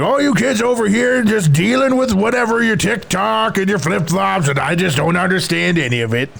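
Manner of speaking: a hint of grumpy old man; lightly voiced grandpa griping. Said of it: "old man voice".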